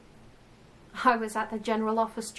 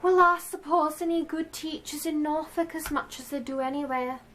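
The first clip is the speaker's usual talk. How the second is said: raised, louder voice of a chatty office lady; chattering secretary voice, higher and louder; yakking secretary; 7 semitones higher, 6 dB louder than usual. Acted. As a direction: yak on obliviously, pitched up. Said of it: "this woman yakking on about".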